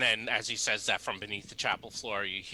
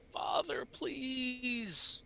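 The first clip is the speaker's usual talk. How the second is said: high pleading cry; 14 semitones higher, much slower than usual. Acted. Distant voice pleading from below.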